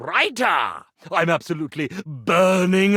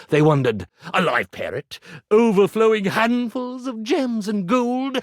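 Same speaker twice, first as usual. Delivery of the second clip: a lightly dramatic reading of a purple-prose memoir; reading his own story aloud. Acted. An ironing board reads his draft to his editor, lightly theatrical. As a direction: read your manuscript with a touch of grandeur. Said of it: "Could I read you a short bit".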